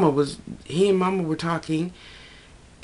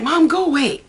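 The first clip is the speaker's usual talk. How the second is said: mock telling off; 10 semitones higher, 4 dB louder than usual. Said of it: "so I'm like".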